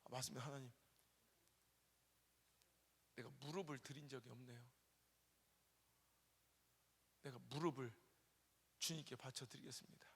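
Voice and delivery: low, soft, surrendering prayer; hushed humble vow. Retold or imitated. Pastor retells vowing his knees to God, low and soft. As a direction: give yourself up to God quietly.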